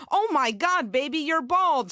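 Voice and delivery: loud, high gasping alarm; shocked gasp. Retold or imitated. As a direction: gasp it out, aghast. Stylist gasping.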